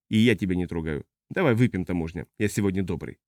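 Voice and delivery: low, soft-spoken heavy drinker; drunk spacer. Acted. Huge tipsy man invites customs officer, low and menacingly friendly.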